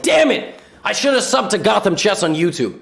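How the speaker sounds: mock frustrated outburst, lightly voiced; comic voice-over of a frustrated player; Magnus. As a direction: curse a drawn game in hammed-up dismay. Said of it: "so I'm gonna voice it over. This was Magnus when he realized it's a draw".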